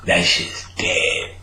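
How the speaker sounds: extremely high, slow squeak; squeaky high. Retold or imitated. Refusing the water at Publix, slow squeaky whine. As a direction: squeal it out helplessly.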